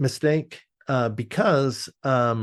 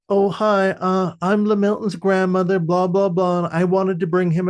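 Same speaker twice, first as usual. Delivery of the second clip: polite grandmother; 7 semitones higher, 4 dB louder than usual. Retold or imitated. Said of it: "he's all like".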